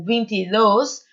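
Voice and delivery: "vinte e dois" with the last syllable, "dois", strongest; stress on DOIS. Shown as a demonstration. Teacher shows students the predominant syllable, stress on final "dois". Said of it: "uma sílaba que é mais predominante".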